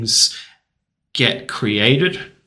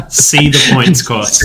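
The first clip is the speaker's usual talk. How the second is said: louder and slow, every word hit hard; shouting capitalized words; 6 dB louder, slower than usual. Retold or imitated. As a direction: read it out like an all-caps post. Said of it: "this is the only part in Gorchin's post where he's written in all caps".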